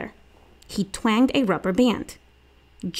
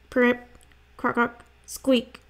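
higher-pitched frog-call imitation; slow croaks, then a squeak; 4 semitones higher than usual. A narrator's reading. Frog calls played on the way to swimming, imitated croaks. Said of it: "Stink listened to frog calls".

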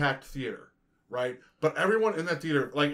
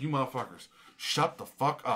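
muttered mock rant; 4 semitones lower, 5 dB quieter than usual. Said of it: "I'm like this".

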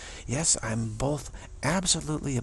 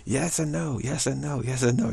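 lightly voiced Jesus; 4 semitones higher, 3 dB louder than usual. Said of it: "And he'd say".

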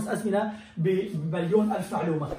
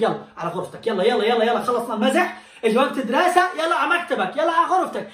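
laughing, hammed-up hurry-up from a parent; mock nagging parent; 3 dB louder than usual. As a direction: imitate a parent chasing kids to their room, half laughing. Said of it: "ولا أمك بتقول لك". (أم تستعجل أولادها بتمثيل ضاحك)

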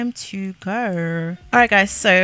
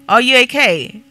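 mock concern; 3 semitones higher, 7 dB louder than usual. Mock-worried at rude Sim.

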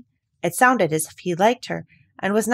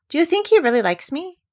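higher, louder eager question; eager cry; 10 semitones higher, 5 dB louder than usual. A narrator's reading. Mary eagerly asking Dickon about the robin, higher and louder. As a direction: burst out with hope. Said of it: "cried Mary eagerly".

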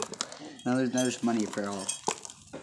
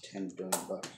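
whispering; 7 semitones lower, 13 dB quieter, faster than usual. Pretend. Whispered value of the crystals.

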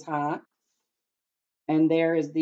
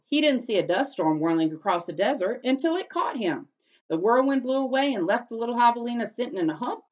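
put-on lively read-aloud to children; storybook reading; 3 semitones higher than usual. A narrator's reading. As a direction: read it like story time for kids.

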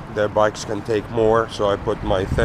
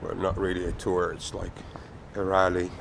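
croaky voice. Real, not acted. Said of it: "Excuse the croaky voice".

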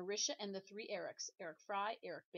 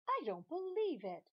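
much higher, louder exclaim; disbelief; 9 semitones higher, 6 dB louder than usual. Acted. New teacher sees the class, loud disbelief. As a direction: gasp it out in shock.

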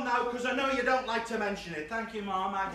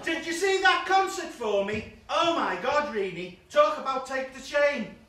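mock posh lady voice; 4 semitones higher, 5 dB louder than usual. Reading a text in a mock voice.

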